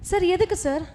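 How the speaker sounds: loud, high, desperate pleading with the boss; panicked shouting at the boss who fired him; shouting in shock. Acted. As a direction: shout it out, begging sir to listen. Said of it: "ஏன் கத்திக்கிட்டு இருக்கீங்க".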